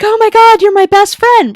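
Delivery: high, loud gushing new best friend; mock gushing. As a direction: gush like she just found her best friend. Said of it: "be like".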